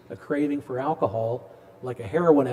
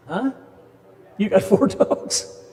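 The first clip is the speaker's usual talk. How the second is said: surprised; 7 semitones higher, 7 dB louder, slower than usual. Real, not acted. Reacting to a student's answer.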